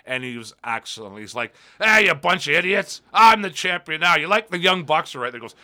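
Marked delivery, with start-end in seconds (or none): 1.8-5.3 loud, higher cocky promo voice; Jericho. Retold or imitated. Retelling the champion's backstage promo to co-host, brash mock taunt. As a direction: imitate a wrestler taunting everyone backstage. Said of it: "just cut this promo on everybody".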